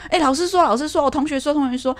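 put-on high, eager little kid voice; lightly voiced child reporting what the teacher said; chattering child. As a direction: kid excitedly telling a parent about school. Child chattering about school.

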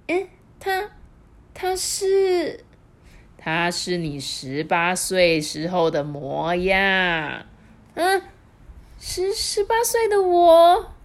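put-on old woman shocked at her young self; amazed old wife. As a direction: gasp in disbelief.

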